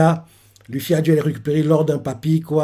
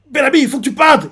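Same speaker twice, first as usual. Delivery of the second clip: high alarmed plea; frightened crewman; urgent warning; 9 semitones higher, faster than usual. Retold or imitated. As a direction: urge him to run. Pirates urging Bellamy to flee.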